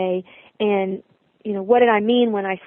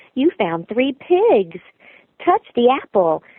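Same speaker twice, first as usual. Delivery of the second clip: put-on sincere, instructional, sing-song young mother voice; 3 semitones higher than usual. Speaker demonstrating the lines they voice, in a young mom's voice. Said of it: "I'm doing a young mom's voice".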